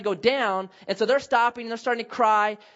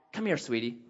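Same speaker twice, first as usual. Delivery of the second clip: gentle. Retold or imitated. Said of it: "gently admonish you".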